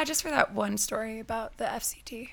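whispered secret aside. Real, not acted. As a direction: breathe it like a secret. Whispered aside about bleeped story.

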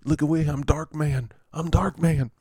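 lightly hammed-up tormented movie hero; Dark Man. Host quoting the Dark Man movie, mock-dramatic. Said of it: "you know, the movie Dark Man".

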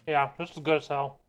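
talking through a mouthful of popcorn; chewing while talking; mouth full. Real, not acted. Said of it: "Excuse me for talking with my mouth full".

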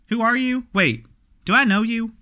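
high puzzled questions; confused. Acted. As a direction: ask it baffled.

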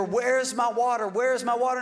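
put-on insistent complaint; lightly acted repeated demand; mock demanding. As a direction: imitate people who lead with their need. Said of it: "they were demanding".

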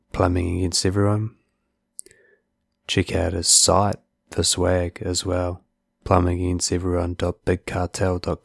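measured, scripted sign-off to listeners; steady host's outro with deliberate pauses; podcast outro read. Acted. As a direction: wrap up the show in an even, unhurried read.

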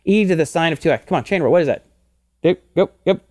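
rapid-fire impatient coach; hurrying someone. Shown as a demonstration. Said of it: "I'm more of a coach".

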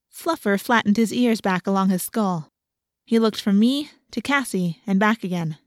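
ordinary delivery

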